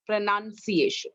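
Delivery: "pronunciation" with NUN before "ciation"; correct pronunciation. Shown as a demonstration. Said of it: "लेकिन सिएशन आने के समय".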